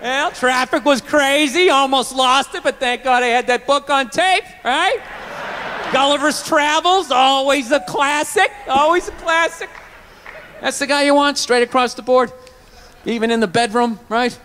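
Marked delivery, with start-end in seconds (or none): 0.0-9.7 mild nice-guy impression. Playing the even-keeled guy.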